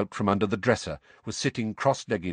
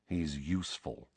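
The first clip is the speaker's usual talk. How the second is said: low, soft mutter; grudging low mutter; 4 semitones lower, 9 dB quieter than usual. A narrator's reading. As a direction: mutter it under your breath. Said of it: "Sirius muttered".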